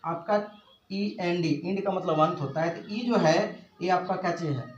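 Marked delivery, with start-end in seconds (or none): 0.0-1.5 ई एन डी spelled slowly, letter by letter; teacher spells ई एन डी slowly on the board; spelling out letters. Shown as a demonstration. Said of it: "देखिए".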